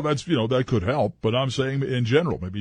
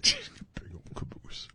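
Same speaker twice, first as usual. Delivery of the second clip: high falsetto; 10 dB quieter, much slower than usual. Acted. Mocking falsetto.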